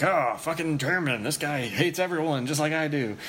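imitated delighted approval. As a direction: imitate a thrilled inmate welcoming one of his own. Retelling inmate's delighted approval of surname.

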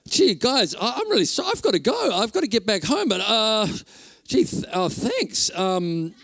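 rattled, fumbling for words before rushing off; shocked and flustered. Retold or imitated. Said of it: "like, shocked".

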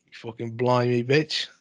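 lightly hammed-up British cursing; put-on British accent, half-hearted; mock British accent. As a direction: badly fake a Brit swearing. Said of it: "We're both doing British".

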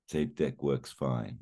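a lightly done cool Willis, drawn out; Brucey style. Retold or imitated. Partner answers the jab with slow Willis cool. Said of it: "his eyes narrow Brucey style".

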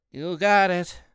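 stuffy, like fighting a cold; stuffy nose. Acted. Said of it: "sounding stuffy like he's fighting a cold".

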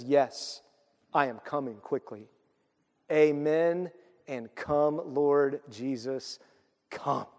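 measured, solemn reading slowing into a benediction; Scripture reading. Acted. Pastor reading the last words of Scripture, solemn. Reads Scripture aloud to close.

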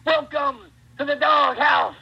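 slow, shouted, high voice-frying wrestler catchphrase; Rick Steiner. Acted. Showing the similar brother's catchphrase, high shredding Michigan shout. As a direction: shout it slowly until the voice fries. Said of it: "Rick Steiner is like".

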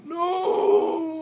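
very high, loud hysterical shriek; hysterical scream. Acted. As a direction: scream it with total panic. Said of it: "Frank hysterically".

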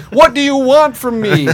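loud, high, drawn-out plea; hammed-up yell at a creature that won't answer; mock exasperated shout. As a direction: slowly holler it in mock despair. Acts out talking to wolves.

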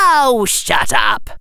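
annoyed snap. Acted. Harry snaps at inner critic.

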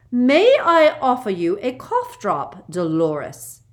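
curt. A narrator's reading. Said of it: "asked curtly".

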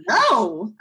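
mock excited. Me turning down the nuke offer, mock excited. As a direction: echo her excitement while refusing. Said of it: "responded in the same tone of voice".

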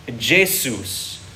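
"Jesus" said hay-SOOS, hardened start; hardened name. Shown as a demonstration. Pastor showing the Germanic hardening, hay-SOOS. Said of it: "gets hardened to a".

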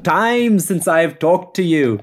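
high breathless gushing to her favorite dad; gushing Anne Hathaway. Acted. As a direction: gush like a starstruck fan. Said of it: "I'll do Anne Hathaway here".

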